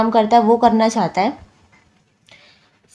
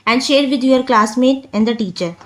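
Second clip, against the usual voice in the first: slow reading; much slower than usual. Shown as a demonstration. Reads task slowly.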